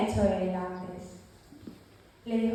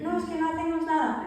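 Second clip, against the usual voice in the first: mock excuse; 5 semitones higher, faster than usual. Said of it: "excusa imitada de creyentes".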